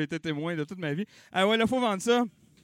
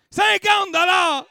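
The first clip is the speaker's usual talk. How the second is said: slow, loud, higher bid called out; auction shout; 10 semitones higher, 6 dB louder, slower than usual. Real, not acted. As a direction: hammer out the big number. Auctioneer calling out bids. (crier lentement le gros montant)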